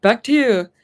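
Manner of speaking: mock newscaster handing over. Shown as a demonstration. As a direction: toss it back like a TV news anchor. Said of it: "I sound like a newscaster".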